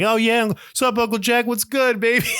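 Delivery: hammed-up, very high child voice; imitating himself as kid. Eight-year-old greeting Uncle Jack, hammed-up high kid voice. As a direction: squeak it out like a cocky little kid. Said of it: "That's how I talked".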